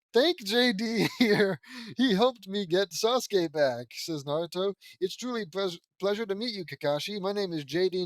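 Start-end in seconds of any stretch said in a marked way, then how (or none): 0.1-3.9 louder, higher, emphatic character voice; excited gratitude. A narrator's reading. Naruto telling Kakashi whom to thank, excited gratitude. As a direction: push the thanks out with gusto.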